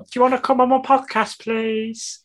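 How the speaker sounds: high, pleading ask; begging fan. Pretend. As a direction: sweetly beg for a favor. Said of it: "be like".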